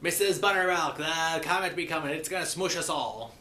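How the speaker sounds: mildly panicked cry; mock panic. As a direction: play at panicking. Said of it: "begins to panic".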